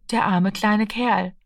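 langsam und mitfühlend; bedauernd. Acted. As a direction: voller Mitleid langsam sagen. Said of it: "bedauerte die Mutter". (langsam, mitfühlend bedauernd)

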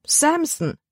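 high dismayed cry of the name; calling out. A narrator's reading. Libby hears the dog's name, high startled call. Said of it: "rief Libby".

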